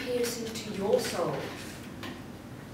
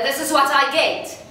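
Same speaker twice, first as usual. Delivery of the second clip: ordinary voice pushed louder, forced and tight; just louder; 4 semitones higher, 5 dB louder than usual. Shown as a demonstration. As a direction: push the normal voice louder. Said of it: "if I try to make my ordinary speaking voice louder".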